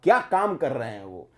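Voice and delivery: hushed mock awe; mock gushing praise. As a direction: imitate an admirer sighing "aha-ha-ha". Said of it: "भयंकर तारीफ कर रहा है".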